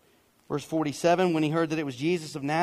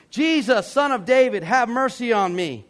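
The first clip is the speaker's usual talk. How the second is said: loud, raised-pitch cry; Baptist preacher call; 6 semitones higher, 7 dB louder than usual. Shown as a demonstration. Preacher showing how the beggar wasn't sitting saying it, loud call. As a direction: call out emphatically, short of a full yell. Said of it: "get all Baptist preacher on you".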